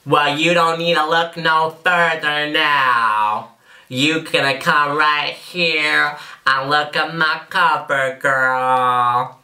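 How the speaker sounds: slow, drawn-out ad pitch in would-be Californian accent; mock Californian accent. Shown as a demonstration. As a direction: sell it slowly with a put-on Californian accent. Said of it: "mastered my Californian accent, ready for a CoverGirl commercial".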